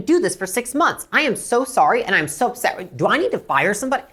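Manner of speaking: acted outrage, emphatic and relentless; escalating upset. Shown as a demonstration. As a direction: pile on indignant sympathy, line after line. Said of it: "escalate beyond their upsetness".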